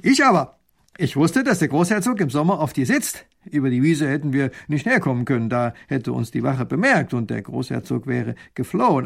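a hint of a smug officer; proud lieutenant. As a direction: boast about your clever plan. Lieutenant boasts of tunnel.

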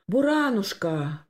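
slow, stricken calling of a pet name; sinking voice. Acted. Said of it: "проговорил он упавшим голосом". (упавшим голосом)

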